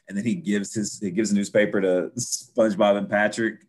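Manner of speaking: usual speaking voice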